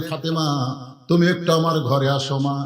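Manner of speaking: low, soft call to a daughter; gentle fatherly call. Retold or imitated. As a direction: call her over tenderly, without raising the voice. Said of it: "আল্লাহর নবী ডাক দিলেন". (মেয়েকে নরম স্বরে স্নেহের ডাক)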